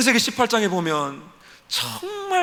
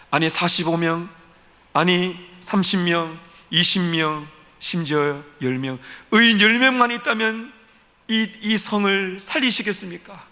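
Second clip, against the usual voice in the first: bargaining with God. Acted. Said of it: "막 따지듯이 그렇게 합니다".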